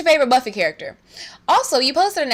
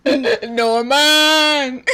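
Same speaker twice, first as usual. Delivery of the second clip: mock tearful cry; 3 semitones higher, 4 dB louder than usual. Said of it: "I actually almost cried".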